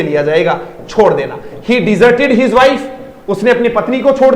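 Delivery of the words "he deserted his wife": very slow, word by word; teacher reading an example slowly. Shown as a demonstration. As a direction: read the example sentence slowly. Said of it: "teacher reads example sentence".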